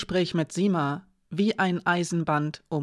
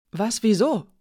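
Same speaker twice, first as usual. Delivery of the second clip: higher, indignant questioning; 4 semitones higher, 3 dB louder than usual. A narrator's reading. Edik reacts to the order to stop searching, indignant. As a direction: protest in disbelief, pitch jumping up. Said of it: "fragte Edik empört".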